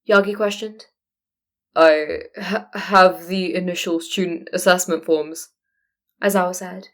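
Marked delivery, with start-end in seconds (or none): 1.8-5.5 halting, slower, a touch of fear; shaken stammer. Acted. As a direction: stumble over the first word, rattled. Shaken Aizawa faces All Might.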